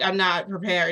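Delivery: loud, high, urgent pleading; panicked protest. Retold or imitated. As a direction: cry it out in alarm. Panicking protest in retold scene.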